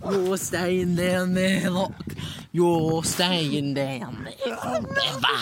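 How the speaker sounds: slow, loud menacing taunt. Acted. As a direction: drag it out like a villain. Dropping friend in space.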